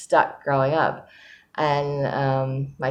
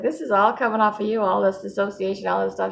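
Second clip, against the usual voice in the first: lightly voiced counselor, pitched much higher; a hint of the counselor, raised high; quoting the counselor; 6 semitones higher than usual. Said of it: "It's like".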